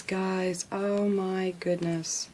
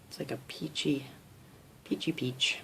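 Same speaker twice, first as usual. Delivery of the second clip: lower, hushed whisper of a colour name; soft whisper; 6 semitones lower, 6 dB quieter than usual. Real, not acted. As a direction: breathe the word out in wonder.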